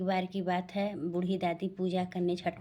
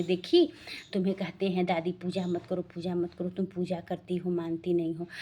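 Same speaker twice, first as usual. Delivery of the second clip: scolding the mother. Retold or imitated. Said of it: "वो माँ को लगी कोसने".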